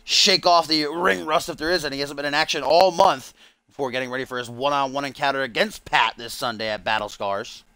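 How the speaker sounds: lively wrestling commentator; play-by-play. Pretend. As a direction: call the match as it unfolds.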